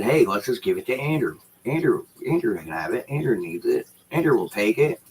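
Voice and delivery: sing-song mimic of everyone handing him stuff; mocking quote. Complaining to viewers, mimics the landlord in a mocking voice. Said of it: "Why is everything gotta be said".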